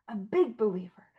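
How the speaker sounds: breathy whispered echo of the phrase; whispered repeat. Shown as a demonstration. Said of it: "And I'm a big believer".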